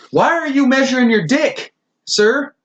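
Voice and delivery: high, incredulous questioning; comic, scandalised squeak; mock disbelief. Mock challenge to the study's men.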